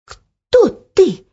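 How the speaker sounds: high, loud startled gasp of a question; breathless fright. Acted. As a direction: catch your breath and ask. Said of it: "перевела дыхание Оля".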